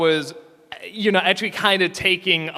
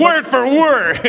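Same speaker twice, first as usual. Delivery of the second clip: high, loud, drawn-out irony; mock emphatic praise; 9 semitones higher, 6 dB louder, slower than usual. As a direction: proclaim it slowly with hammed-up conviction. Joking sarcastic praise of bad adaptation.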